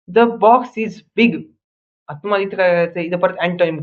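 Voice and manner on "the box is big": very slow, a little higher and louder, every word spaced out; slow model sentence. Shown as a demonstration. Teacher modelling an example sentence for students, very slow and louder. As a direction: say it slowly so the class can copy it. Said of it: "teacher models an example sentence".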